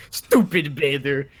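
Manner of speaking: slow, dumb brute voice; dopey cartoon bellow. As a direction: drawl it like a dim bugbear. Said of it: "And I go".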